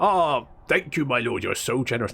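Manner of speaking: lightly voiced fawning peasant; mock gratitude to a lord; grateful peasant. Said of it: "And they'll be like".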